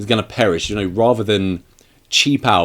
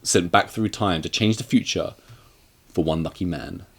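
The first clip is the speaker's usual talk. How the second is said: trailer voice; 4 semitones lower, 6 dB quieter than usual. Pretend. Movie trailer tagline.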